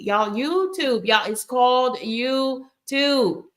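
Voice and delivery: slow, hammered-home emphasis on YouTube; drawn-out YouTube. Real, not acted. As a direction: stretch out YouTube, both syllables held long. Drives home the platform's name.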